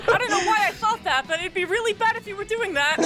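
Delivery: mock scolding. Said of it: "Daryl, it's me".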